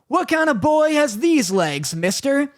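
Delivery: high, drawn-out indignant retort; mock indignation. Retold indignant woman to driver.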